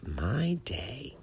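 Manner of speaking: quietly chuffed; pleased. A narrator's reading. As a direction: say it with soft, rising delight. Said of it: "said in a pleased voice".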